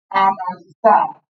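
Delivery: slow, syllable by syllable; teacher spelling out "Analizar" slowly by syllables; slow syllable split. Shown as a demonstration. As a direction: stretch each syllable of "Analizar" apart. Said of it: "¿cómo dividimos silábicamente analizar?".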